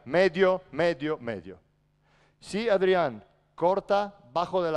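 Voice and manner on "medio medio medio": mild demo of calling out; a raised call, easing off on the repeats; demonstrated shout. Shown as a demonstration. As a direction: show the player how to call it, repeated.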